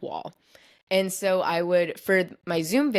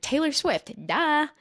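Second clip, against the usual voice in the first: higher, know-it-all naming of a singer, duh; smug duh; 10 semitones higher, slower than usual. Retold or imitated. Answering the producers' easy clue, smug and higher. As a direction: toss it off as obvious. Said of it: "And I'm like".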